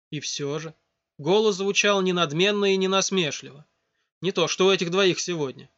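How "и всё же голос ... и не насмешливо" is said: plain reading voice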